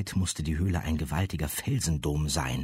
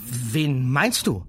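put-on higher, louder young girl; 7 semitones higher, 6 dB louder, slower than usual. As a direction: ask as a girl. Girl asks.

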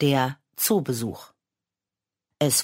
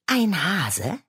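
higher, doubting rise on the repeated words „Ein Hase?“; surprised question; 5 semitones higher than usual. Acted. Sister questioning his choice of animal, surprised rising echo. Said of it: "Clara questions the answer".

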